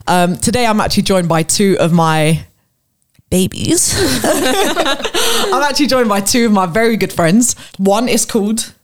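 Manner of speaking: exaggerated YouTuber intro; hammed-up host greeting; customer service voice. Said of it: "I'm, I'm putting it on".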